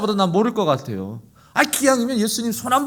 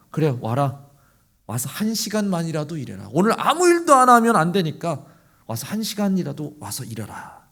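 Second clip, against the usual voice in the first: gentle invitation; 3 semitones lower than usual. Retold or imitated. The Lord calling the idle workers, gently. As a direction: coax them in kindly.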